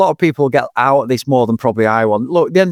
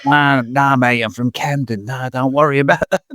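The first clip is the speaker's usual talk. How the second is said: mock Cockney reply. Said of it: "Are you, are you, um, from Melbourne?".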